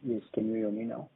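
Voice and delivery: speaking too far from the handset; very low voice. Real, not acted. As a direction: still faint and distant on the phone. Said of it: "your voice is very low".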